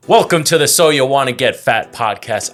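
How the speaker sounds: announcer-style show opening with punched phrases; podcast host intro. Acted. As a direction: welcome listeners like a show host.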